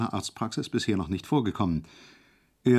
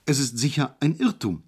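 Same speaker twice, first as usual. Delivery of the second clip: cheerful; 4 semitones higher than usual. Acted. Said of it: "sagte er munter".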